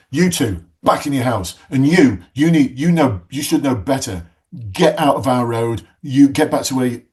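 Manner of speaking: imitating a neighbour ordering people about; bossy telling-off. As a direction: order them off like a cross local. Neighbour orders brawlers back indoors.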